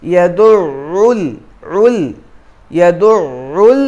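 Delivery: ইয়াদুউল with the lam joined straight onto ইয়াতীম; joined reading. Shown as a demonstration. Teacher shows how the two words join. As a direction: run ইয়াদুউল into the next word. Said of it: "দুটো মিলিয়ে পড়লে".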